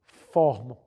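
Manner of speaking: whispered word. Real, not acted. Lecturer whispers the last word of his argument, hushed. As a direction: let "forma" fall away to a whisper.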